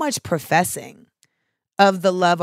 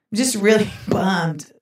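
"really bummed" said slowly with a laugh breaking in; drawn out, laughing. Shown as a demonstration. Mock-sad aside to the listeners, slow and laughing. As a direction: stretch "really" and let a laugh slip before "bummed". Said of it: "I'm just really bummed about this".

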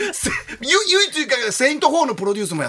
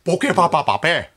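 imitation; 3 semitones lower than usual. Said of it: "高遠力のモノマネ".

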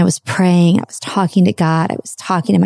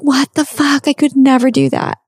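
higher, strained disbelief, not quite shouting; incredulous self-doubt; 6 semitones higher than usual. Retold or imitated. To herself, watching the free topless women, high incredulous voice. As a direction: pitch up as if she can't believe herself. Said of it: "And then I'm like".

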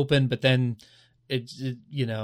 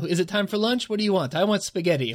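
higher-pitched play-acted exchange; mock bickering; 7 semitones higher than usual. Imagined crewmates arguing over what to eat, mock bickering. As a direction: act out a petty lunch squabble. Acting out a squabble over lunch.

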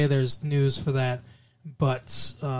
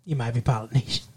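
mock punchline; 4 semitones lower, 3 dB quieter, faster than usual. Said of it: "you could do that with anything".

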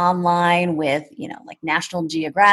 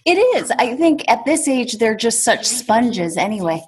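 starts much higher, trails to a whisper; higher, then whispered aside; hushed aside; 6 semitones higher than usual. Real, not acted. Mother talks as child nearby.

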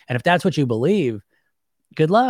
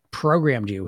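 ordinary delivery

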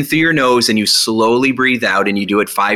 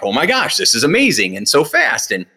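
a touch of rushed astonishment at the end; retold freaked-out amazement; 3 semitones higher than usual. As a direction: imitate someone amazed and grateful. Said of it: "he was, like, freaked out".

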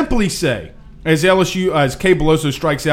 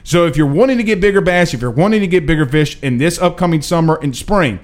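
sponsor ad read. Acted. Reads a sponsor ad.

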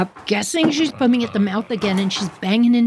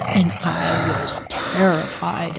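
slow, breathy hush; hushed whisper; 3 semitones lower, slower than usual. Retold or imitated. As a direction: whisper it like you're still scared. Recalling terror, whispered slowly.

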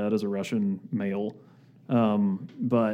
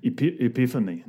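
put-on Russian accent. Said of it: "Can you do that in a Russian accent?".

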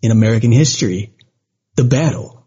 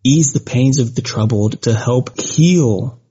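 earnest spoken prayer. Acted. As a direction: pray reverently to the Lord. Leads a prayer for victims.

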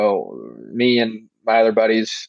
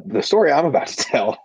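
laughing; 3 semitones higher than usual. Real, not acted. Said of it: "I'm just cracking up thinking about it".

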